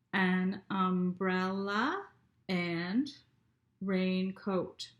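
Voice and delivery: umbrella and raincoat drawn out slowly, beat by beat; teacher counting syllables slowly. Shown as a demonstration. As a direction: stretch each syllable to count it. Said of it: "let's read it again and count".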